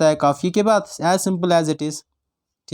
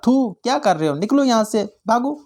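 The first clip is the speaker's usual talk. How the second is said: mildly scornful, higher-pitched dismissal; a touch of hateful rebuke, pitched up; acted hatred; 4 semitones higher than usual. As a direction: send them away with mock disgust. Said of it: "बोलते हो नफ़रत से".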